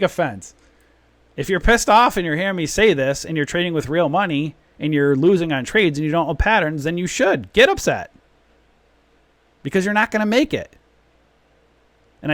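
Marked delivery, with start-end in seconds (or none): 1.4-10.8 ranting yell. Real, not acted. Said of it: "I'm just yelling".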